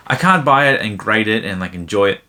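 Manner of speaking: speaking through hiccups; words broken by hiccups. Real, not acted. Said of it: "Sorry, I got the hiccups now".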